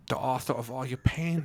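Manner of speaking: hammy movie villain. Retold or imitated. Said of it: "mine keeps sounding Swedish".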